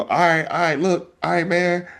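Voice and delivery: high, laughing give-up; mock surrender. Kid giving in to mom so she stops pulling teeth. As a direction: throw your hands up and concede.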